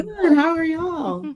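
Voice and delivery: high, loud bright greeting; excited greeting. Real, not acted. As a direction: greet the hosts with big energy.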